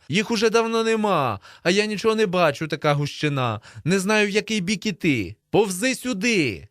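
high, insistent yelling; shouted complaint. A narrator's reading. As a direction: shout across the field to a friend. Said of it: "кричу я".

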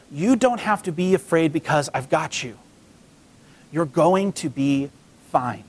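low, slow reassurance; slow down and settle their fears; reassuring. Retold or imitated. God reassuring the Israelites.

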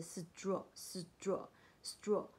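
straw as a clipped "s-dr" blend. Shown as a demonstration. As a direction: sound out straw with a d-like t. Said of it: "S T R就是念起来是". (straw，t 念得像不送气的 d)

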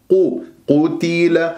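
قتل slow, ta given full kasra; don't clip the kasra in قتل. Shown as a demonstration. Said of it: "لازم أنا ما أختلسها".

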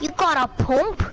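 slow, put-on British ask; British accent. Asking a teammate for a pump, British accent. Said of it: "Keep speaking like that".

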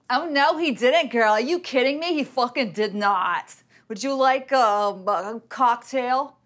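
hammed-up sass, pitched a bit up; over-the-top girlfriend drama; sassy best friend. Shown as a demonstration. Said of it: "I have range".

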